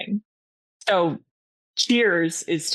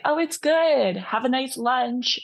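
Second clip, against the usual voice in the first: chirpy reply; 6 semitones higher than usual. Retold or imitated.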